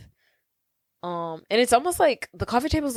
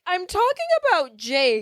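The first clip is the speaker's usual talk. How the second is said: high, tearful teen wail, imitated; mock crying; 7 semitones higher than usual. Daughter correcting her dad about her crush, mock crying. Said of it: "And then she starts crying".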